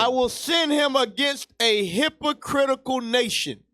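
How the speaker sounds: host shouting the verse to make the point; preached shout. Acted. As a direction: drive the verse home like a sermon. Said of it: "host repeats verse emphatically".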